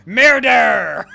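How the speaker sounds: shrieked high and loud; murderous scream. Pretend. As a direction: scream it like a killer mid-attack. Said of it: "that's what she screams when she kills someone".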